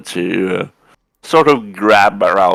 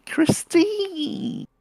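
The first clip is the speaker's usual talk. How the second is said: breathy whisper; 8 dB quieter than usual. Acted. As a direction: whisper her name, higher. Character greeting lover softly.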